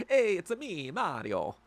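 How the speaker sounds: quick high-pitched Mario voice on the greeting, dropping back down on the name; a playful Mario bit for chat; Mario impression. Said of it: "Speaking of Italian".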